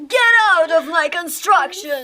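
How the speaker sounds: tearful, voice wobbling with hurt; crying, hurt. Acted. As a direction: cry out the words, wounded. Upset excavator insulted, crying.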